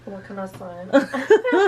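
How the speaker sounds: laughing around a cough drop. Real, not acted. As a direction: lozenge in mouth, words a bit thick. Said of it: "'Cause she sounds like this".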